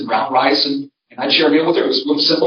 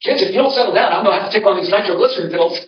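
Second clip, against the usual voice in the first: higher-pitched, lightly voiced grandma threat; imitated warning grandmother; 5 semitones higher, faster than usual. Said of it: "use that to get us kids to settle down".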